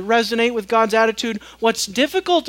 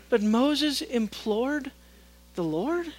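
incredulous; 3 semitones higher, 3 dB quieter, slower than usual. Shown as a demonstration. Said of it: "When you hear God in that tone".

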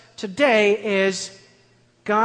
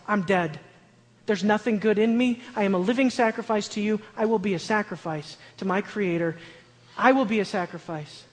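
rising, louder preacher's build; preaching at full force; 4 dB louder than usual. Acted. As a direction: preach it out to the room, climbing. Loud preaching passage.

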